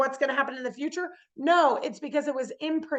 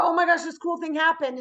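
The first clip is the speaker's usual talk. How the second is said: excited; 5 semitones higher than usual. Acted. Re-enacts her excited news.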